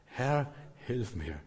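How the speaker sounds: soft, slow little prayer; quiet simple plea. Shown as a demonstration. Preacher showing a quiet prayer to God. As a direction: breathe it out softly and slowly. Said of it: "Muss nicht viel sagen".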